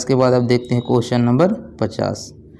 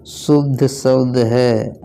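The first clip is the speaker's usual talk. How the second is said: slow reading; much slower than usual. Shown as a demonstration. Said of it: "reads option slowly".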